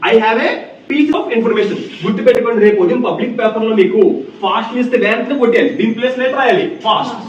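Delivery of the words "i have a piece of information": slow model sentence. Shown as a demonstration. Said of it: "pieces of information అని చెప్పుకోవచ్చు".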